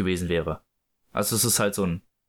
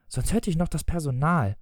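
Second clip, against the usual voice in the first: higher-pitched anxious plea; pleading; 4 semitones higher than usual. Acted. Wife warns husband the servants will hear, pleading. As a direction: keep pleading in a raised pitch. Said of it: "flehte Misses Darling".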